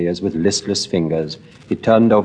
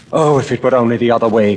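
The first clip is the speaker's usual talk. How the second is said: quick, raised anguished cry; cried out; 3 semitones higher, 4 dB louder, faster than usual. Acted. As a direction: blurt the wish out in pain. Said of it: "cried Dorian".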